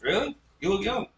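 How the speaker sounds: high, surprised "really". Real, not acted. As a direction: caught off guard by the age. Reacting to the age.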